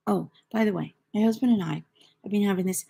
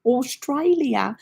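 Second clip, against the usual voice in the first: mock Australian accent; 5 semitones higher, 3 dB louder, much slower than usual. Repeats country in put-on accent.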